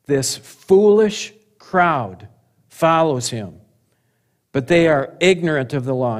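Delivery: elitist contempt. Acted. Leaders talk about the crowd, with elitist contempt. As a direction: pick out each word with mild scorn. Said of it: "look at this attitude, how elitist".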